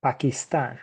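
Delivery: "Pakistan" with Spanish vowels, pah-kee-STAHN; "Pakistan" in Spanish, stress on the end; Spanish pronunciation. Shown as a demonstration. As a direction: say "Pakistan" the Spanish way, open a's. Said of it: "In Spanish".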